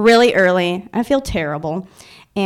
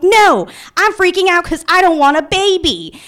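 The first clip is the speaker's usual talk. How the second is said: high, mildly shouted mock panic; retold freak-out; 9 semitones higher, 3 dB louder than usual. Woman answering people at the clinic, mock shouted freak-out. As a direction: protest in a high acted outburst. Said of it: "Can you stop shouting?".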